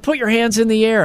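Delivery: high hype-man call to the crowd; hammed-up concert host; mock concert host. Concert host hyping up the crowd, high mock call.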